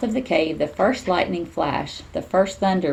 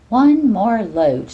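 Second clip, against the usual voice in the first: thinking; 4 semitones higher, 5 dB louder, much slower than usual. Acted. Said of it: "she thought".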